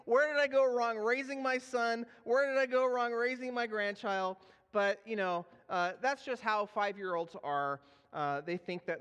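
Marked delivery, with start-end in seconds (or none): 0.1-4.4 bewildered grandma. Retold or imitated. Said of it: "my mom's looking at this whole thing like".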